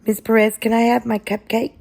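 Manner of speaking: put-on a little boy begging his teacher; child's plea.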